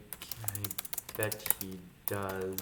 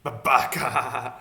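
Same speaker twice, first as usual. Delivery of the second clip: mock echo; 2 semitones higher, 10 dB louder than usual. Echoing the AI's word.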